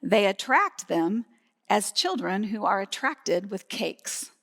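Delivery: slow, measured quote with a touch of scorn; understated contempt, drawn out; mild disgust. Acted. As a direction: lightly voice a critic's disdain. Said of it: "Can you hear the disgust in his voice?".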